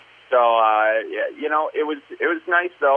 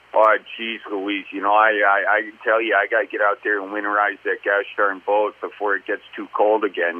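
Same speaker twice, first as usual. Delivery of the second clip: Midwest accent, only the bottom of the jaw moving as if it's cold; thick Midwest accent; 3 semitones lower than usual. Shown as a demonstration. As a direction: push the words through the nose in a thick Midwest accent. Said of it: "talking, like, from the bottom of your jaw".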